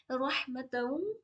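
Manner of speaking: रहमतन with the ह from mid-throat, very slow. Shown as a demonstration. Tajweed teacher drills the throat ह, very slow. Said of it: "हा की sound properly हलक के बीच वाले हिस्से से".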